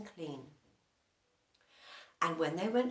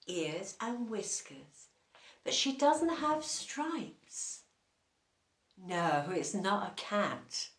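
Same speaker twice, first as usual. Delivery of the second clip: ordinary delivery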